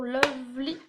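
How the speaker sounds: English title with a French accent; hesitant French-accented English. Real, not acted. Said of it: "désolée de mon accent anglais".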